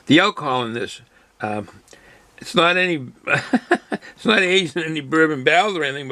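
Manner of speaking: talking while smacking lips after a sip. Real, not acted. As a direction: lip smacking, slurping between words. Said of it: "sorry for my slurping and all my, smacking of my lips".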